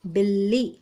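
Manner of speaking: "बिल्ली," with a light half ल and then a full ली; "बिल्ली," आधा ल हल्का, दूसरा ल पूरा; doubled l. Shown as a demonstration. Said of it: "पहले ल की आवाज़ कम आ रही है और दूसरे ल की आवाज़ पूरी".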